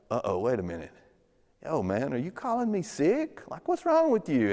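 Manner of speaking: a sudden pitch jump, indignant "are you calling me sick?"; offended surprise. Retold or imitated. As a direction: realize you've just been insulted. Offended critics realizing the insult.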